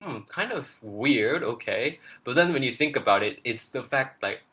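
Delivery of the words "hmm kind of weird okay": slow, slightly higher musing; mildly puzzled, retold; doubtful reaction. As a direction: draw it out as if unsure. Retells own doubtful first reaction.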